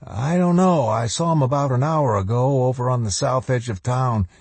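high-pitched junior officer answering; dutiful lieutenant. Acted. Lieutenant telling the colonel where he last saw someone, dutiful.

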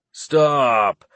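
sharp goblin cry; goblin shriek. Acted. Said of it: "the goblin driver shrieked".

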